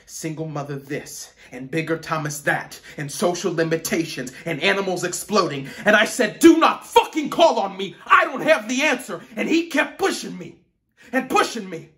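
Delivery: builds from loud frustration to a high, furious shout; mounting fury. Acted. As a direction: explode as if pushed past your limit. Cornered student's anger boils over.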